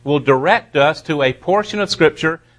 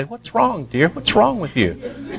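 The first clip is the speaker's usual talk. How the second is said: concerned spouse; 5 semitones higher, 3 dB quieter than usual. Retold or imitated. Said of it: "wanting everybody to come over and say".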